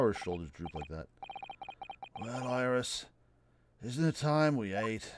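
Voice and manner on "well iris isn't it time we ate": slow, fading mournful English drawl; slow melancholy English gentleman; mopey English gent. Acted. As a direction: sigh out the order like a man in despair. Voicing gloomy Holmes.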